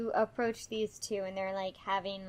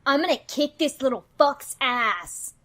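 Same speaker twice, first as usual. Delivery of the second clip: louder, seething threat; pissed off; 3 semitones higher, 6 dB louder than usual. Acted. Nikki to her partner about the splasher, pissed off. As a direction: threaten him on your partner's behalf. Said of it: "is really pissed off on behalf of Cecil".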